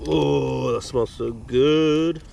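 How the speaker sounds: drawn-out relish; savouring. Real, not acted. Savouring the food smell.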